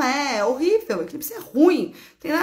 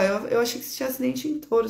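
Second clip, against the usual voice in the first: wrong version, rushed; much faster than usual. Real, not acted.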